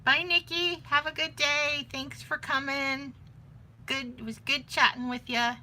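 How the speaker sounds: high, bright farewell called across the room; calling out a loud cheerful goodbye to Nikki as she leaves. Real, not acted. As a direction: sing out a cheery goodbye to a friend leaving. Calling goodbye to departing visitor.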